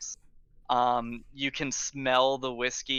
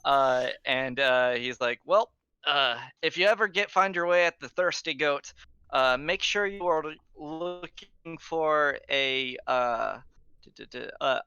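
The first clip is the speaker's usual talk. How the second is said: put-on drunk guard captain. GM voices the guard.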